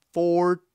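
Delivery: "Four" held long, high and loud; "Four" as a big isolated stressed beat; stressed syllable. Shown as a demonstration. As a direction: lean hard on "Four" alone. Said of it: "the first syllable is stressed".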